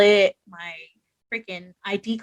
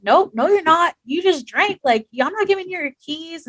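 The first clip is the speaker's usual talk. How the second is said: higher, louder imitation of a friend refusing; mock firm friend; 7 semitones higher, 5 dB louder than usual. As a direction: play the stern buddy, a touch hammed-up. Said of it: "And he was like".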